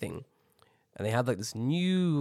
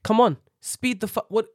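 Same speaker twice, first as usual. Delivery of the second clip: high, exasperated urging; impatient; 7 semitones higher, 5 dB louder than usual. Retold or imitated. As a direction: burst out at a dawdler, loud at the start. Fed-up traveller urging slow staff.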